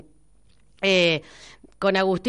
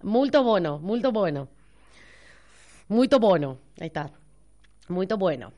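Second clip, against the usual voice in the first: mock Portuguese. Shown as a demonstration. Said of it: "muy buena pronunciación del portugués".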